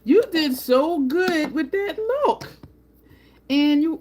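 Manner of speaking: high, loud, drawn-out gushing praise; excited yelling. Real, not acted. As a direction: gush it slowly, high and thrilled. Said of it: "I'm yelling, I'm so excited".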